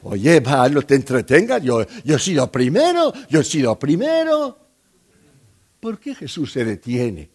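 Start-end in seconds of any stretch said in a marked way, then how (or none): 0.0-4.6 impatient father. Acted. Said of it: "yo, padre de aquella joven, de aquella niña, diría".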